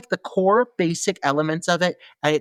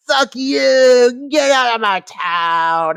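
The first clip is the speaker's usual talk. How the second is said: bully threat; 5 semitones higher, much slower than usual. Retold or imitated. Ray chasing Kyle off, mock thug snarl. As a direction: spit it out like a small-town thug. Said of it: "Ray is like".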